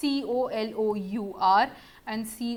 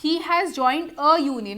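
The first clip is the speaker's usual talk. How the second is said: very slow, louder; slow example; 3 semitones higher, 5 dB louder, much slower than usual. Shown as a demonstration. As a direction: read the tricky example slowly. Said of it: "madam, आपने तो बोला था".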